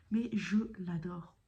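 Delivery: JE L'ADORE slowed and weighted word by word; emphatic insistence. Real, not acted. Vlogger insisting to viewers she loves it, emphatic. Insists on her repeated love.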